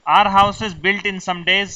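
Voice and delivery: each word laid out slowly for students to copy; slow dictation. Shown as a demonstration. Teacher dictating to students, very slow.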